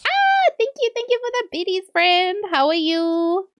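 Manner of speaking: high, bubbly thank-you; excited thanks. Real, not acted. Streamer thanking a viewer for the bits, delighted. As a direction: gush a grateful hello.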